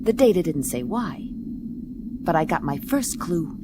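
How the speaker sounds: dry, deadpan private-eye voiceover; hardboiled narration. A narrator's reading. Detective narrating her case over music, dry voiceover. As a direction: tell it like a weary gumshoe.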